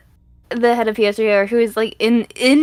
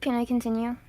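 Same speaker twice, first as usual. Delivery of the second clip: soft unvoiced whispered question; 12 dB quieter, faster than usual. Real, not acted. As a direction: whisper it under the chatter. Whispered aside to get back on track.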